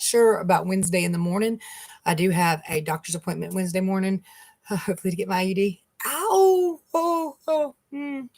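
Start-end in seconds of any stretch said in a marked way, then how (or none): 6.1-8.3 sharp high yelp of real pain, easing into a whimper; a sudden ow, then breathe through it. Real, not acted. Vlogger hurting her finger mid-talk, yelping.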